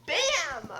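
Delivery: very loud bam; storyteller booms door sound. Acted. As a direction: slam the word like a door. Door bursts open sound effect.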